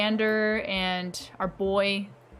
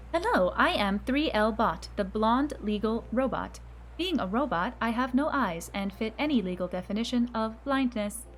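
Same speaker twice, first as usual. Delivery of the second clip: robotic voice. Acted. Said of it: "oddly skilled for a robotic voice".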